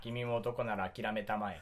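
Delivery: low, slow villain drawl; deep, slow, smug villain voice; Colonel Muska. Retold or imitated. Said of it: "さっきのラピュタのムスカ大佐だよ".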